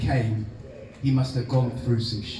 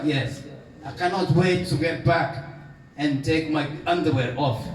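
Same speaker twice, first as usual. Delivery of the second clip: rough Mauritian accent, self-mocking imitation; old Mauritian uncle in a Mauritian accent. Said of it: "my atrocious Mauritius, Mauritian accent".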